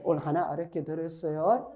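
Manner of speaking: normal talking voice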